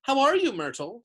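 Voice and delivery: high, loud fake cheer, falling on the name; falsely bright. A narrator's reading. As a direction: greet her with overdone brightness. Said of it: "in a falsely bright voice".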